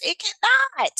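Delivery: firm, defiant no; emphatic denial. Real, not acted. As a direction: slam the door on it. Rebutting AI duplicating voice.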